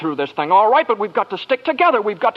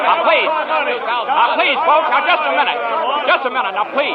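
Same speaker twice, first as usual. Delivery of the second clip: raised voice calming a restless crowd; calling out to crowd; 7 semitones higher than usual. Acted. George calls out to calm the panicking crowd, pleading.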